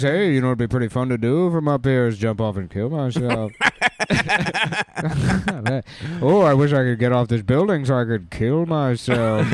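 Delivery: playful character voice, laughing through; laughing while joking. Pretend. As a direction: chuckle through the dark joke.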